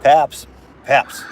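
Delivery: loud call to the dog; calling the puppy. Real, not acted. Man calling his puppy across the yard, loud call.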